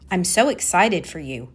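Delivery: excited words with little enthusiasm; not sounding excited. Shown as a demonstration. Coach showing incongruence to listeners, unenthusiastic. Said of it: "don't sound like I am".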